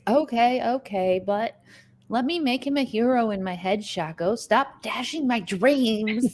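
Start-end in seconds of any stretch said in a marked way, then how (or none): 4.3-6.3 mock whine. Teasing a chat member.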